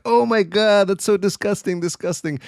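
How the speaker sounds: high-pitched imitated disgust; mock freaking out. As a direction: act out a comic panic of revulsion. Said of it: "like, freaking out".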